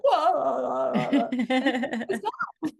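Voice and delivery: amused, breaking into laughter; laughing. Real, not acted. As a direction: laugh at the silly moment. Laughing at herself.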